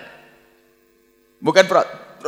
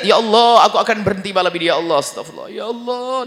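tearful repentance. Retold or imitated. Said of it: "Nangis dia".

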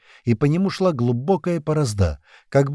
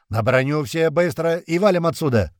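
urgent order, pitched higher; cracking under pressure; 5 semitones higher than usual. A narrator's reading. Туман orders everyone onto the armour, losing composure. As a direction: order a hasty retreat, losing patience. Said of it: "не выдержал Туман".

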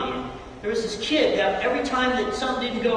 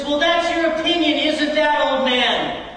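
higher, louder mock jeer; imitating a yelled retort; retold yuppie's retort; 5 semitones higher, 4 dB louder than usual. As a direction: sneer back at the old man. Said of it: "this yuppie screams back at Philip".

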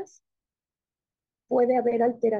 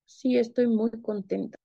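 mismatched happiness. Shown as a demonstration. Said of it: "tampoco coincide".

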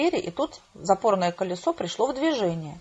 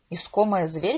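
rising tune on "Искомая зверь"; puzzled echo question. A narrator's reading. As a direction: repeat "Искомая зверь" as a query, lifting at the end. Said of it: "переспросила я".

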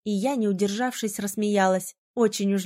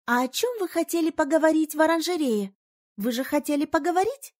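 innocent; 6 semitones higher than usual. A narrator's reading. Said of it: "невинно уточнила Фиона".

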